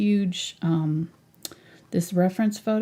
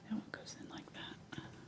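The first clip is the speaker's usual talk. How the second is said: very soft whisper to herself. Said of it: "I'm whispering to myself".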